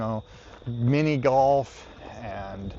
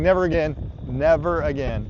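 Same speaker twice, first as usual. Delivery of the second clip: higher, louder mock vow; emphatic refusal; 3 semitones higher, 4 dB louder than usual. Husband quoting his wife after the bear scare, emphatic mock refusal. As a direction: imitate someone firmly swearing off camping.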